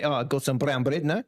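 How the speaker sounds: mock South African accent, rising on "now". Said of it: "South African".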